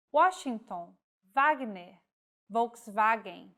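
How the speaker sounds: W as U or V by origin; each W said as in its source language. Shown as a demonstration. Teacher reading example words, W by origin. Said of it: "follows the pronunciation of the language of origin".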